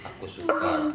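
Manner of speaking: high breathy whisper. Acted. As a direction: whisper it coyly. Teasing whisper in game chat.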